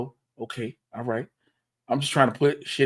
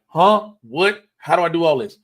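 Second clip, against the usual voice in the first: lightly acted confusion, higher and louder; raised-voice mock bewilderment; mock flustered co-host; 6 semitones higher, 6 dB louder than usual. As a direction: imitate someone overwhelmed, pitching it up.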